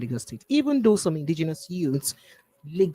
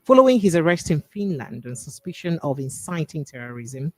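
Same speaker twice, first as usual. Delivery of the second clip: measured news-anchor delivery, key words punched; news read. Real, not acted. Radio host reading Biafra story to listeners, formal news read. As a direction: read the bulletin with formal emphasis. Presenter resumes the bulletin.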